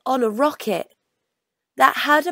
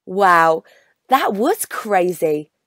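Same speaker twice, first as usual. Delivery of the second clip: delighted wow; 4 semitones lower, 3 dB louder, slower than usual. Acted. Child's delighted exclamation.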